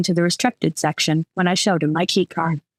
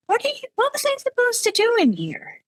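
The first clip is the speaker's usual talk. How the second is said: muffled. A narrator's reading. Muffled voice over phone.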